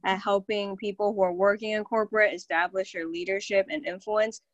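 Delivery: breathless, winded voice; talking while out of breath. Real, not acted. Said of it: "I'm freaking out of breath".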